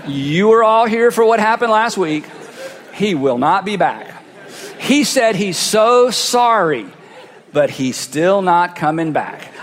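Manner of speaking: lightly voiced church elder; mock-solemn announcement to the congregation; drawn-out words, breaking the news with comic gravity. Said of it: "the elders would be here going".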